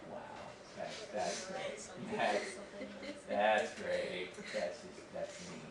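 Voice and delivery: slow, whispered, unimpressed "wow"; deadpan sarcasm. Retold or imitated. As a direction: breathe it out, utterly unamused. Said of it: "I was looking at her like".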